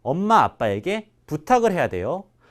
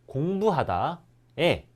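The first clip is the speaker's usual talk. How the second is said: slowed-down word; 4 dB quieter, much slower than usual. Shown as a demonstration. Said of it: "teacher isolating a verb form".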